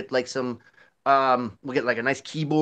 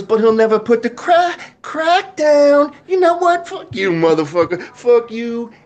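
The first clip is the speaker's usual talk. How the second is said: high, loud mocking rant; hammed-up furious woman; angry lady from skit; 7 semitones higher, 6 dB louder than usual. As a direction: shout it out as the irate neighbor lady, pitched way up. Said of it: "He goes".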